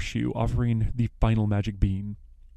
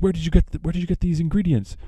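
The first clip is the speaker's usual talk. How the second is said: suspicious witch; 7 semitones higher, faster than usual. Retold or imitated. The witch questions the baker and wife, mildly suspicious. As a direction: press them like a suspicious old witch. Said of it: "the witch asks".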